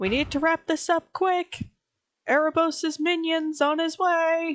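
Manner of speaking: high-pitched shouting in a character voice. Player voicing Ava at full draw as Erebos approaches, shouting. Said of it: "straight up shouting".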